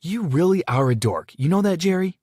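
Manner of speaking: high, loud disgusted jab. A narrator's reading. Sister calling her brother a dork in disgust. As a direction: sneer it in disgust. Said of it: "walked away in disgust".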